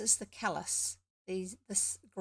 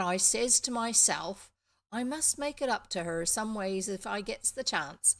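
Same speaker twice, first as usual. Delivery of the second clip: louder, raised Somerset country voice; slight Somerset accent; 6 dB louder than usual. Acted. Farm boy explains the forgotten guinea pig, slight Somerset accent. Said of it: "I have no idea why we have this accent".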